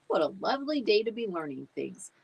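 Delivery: fast, chirpy pretend-pupil voice; fake polite student. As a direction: overdo the good-student act.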